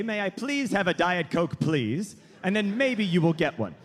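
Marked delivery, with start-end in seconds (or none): 0.0-2.2 polite request. Shown as a demonstration. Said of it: "you're supposed to say".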